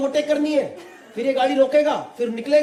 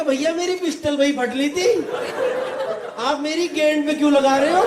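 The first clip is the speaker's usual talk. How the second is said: mock panic; 4 semitones higher than usual. Terrified plea.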